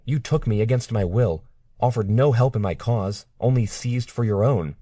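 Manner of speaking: upset accusing. Acted. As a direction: pour out every grievance in a rising voice. Claire accuses her captor.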